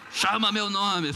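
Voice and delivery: bem mais alto e agudo, devagar; Deus zombando alto. Acted. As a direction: Deus arremedando a súplica em voz forte. Deus imitando a oração. (Deus repetindo o pedido do menino, em tom alto e lento)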